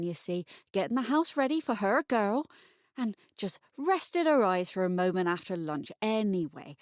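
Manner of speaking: all bosom and bluster, talking herself up; bustling landlady. Acted. Bustling Mrs Ladner justifying herself to the reader, loud and breathless.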